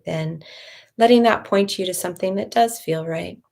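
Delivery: calm, measured meditation voice with long pauses; guided meditation. Real, not acted. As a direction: gently guide listeners inward, leaving room to breathe.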